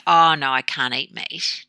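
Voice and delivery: mildly helpless mock refusal; slight victim. Vegetarian offered some meat, slight victim refusal. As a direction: decline like a bit of a victim, lightly acted. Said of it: "this kind of slight victim where you can't".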